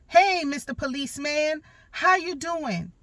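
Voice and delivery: put-on cheerful little boy. Mom imitates her son happily greeting the cop, high and childlike. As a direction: chirp it like an eager little kid.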